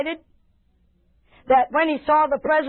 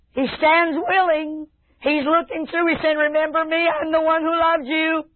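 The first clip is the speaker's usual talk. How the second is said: slightly raised, earnest pleading sermon voice; impassioned preaching; 4 semitones higher than usual. Acted. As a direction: preach a heartfelt invitation from the Lord. Preaches God's plea to the listeners.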